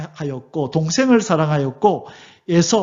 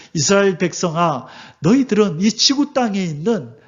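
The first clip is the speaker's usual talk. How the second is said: God speaking; 4 semitones higher than usual. Retold or imitated. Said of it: "이렇게 하나님은 말씀하는 거예요".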